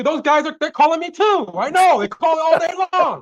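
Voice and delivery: exasperated seller griping about the calls; annoyed seller. Pretend. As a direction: play the fed-up homeowner who's been called to death.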